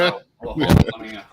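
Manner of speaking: tinny mic, like inside a can; tin can sound. Real, not acted. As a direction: speak through a cheap tinny microphone. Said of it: "you're just in a bigger tin can".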